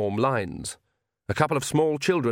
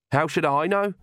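snapped; 6 semitones higher than usual. A narrator's reading. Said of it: "snapped Agnes".

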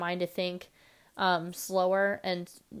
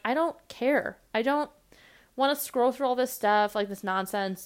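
mock exasperated dismissal; impatient mock complaint; fed-up rant; 4 semitones higher than usual. Annoyed at Facebook groups.

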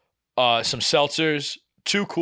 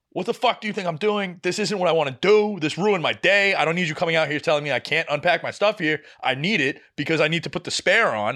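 higher, fast, exasperated rant; heated rant; 5 semitones higher than usual. Retold or imitated. To the shop owner, a heated exasperated rant. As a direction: unload it all on her. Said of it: "I literally was like".

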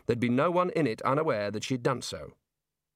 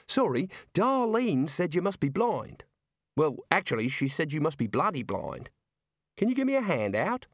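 put-on higher young woman, unhurried and matter-of-fact; Neilette's voice; 4 semitones higher than usual. Girl in the luggage asks Rincewind for help, high voice. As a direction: voice the girl asking for a hand.

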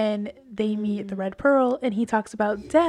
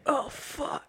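hushed, breathy swear as Cass; imagined sheepish whisper under the breath; 3 semitones higher, 8 dB quieter than usual. Pretend. Host imagines Cass scratching his neck, sheepish hushed swear. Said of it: "scratching the back of his neck".

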